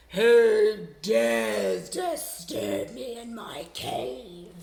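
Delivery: loud, slow booming dragon voice; dragon growl. Acted. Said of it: "the dragon growled".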